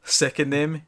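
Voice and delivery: lightly acted fake confession; mock breaking down. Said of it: "he puts on, like, the act that he's, he's breaking".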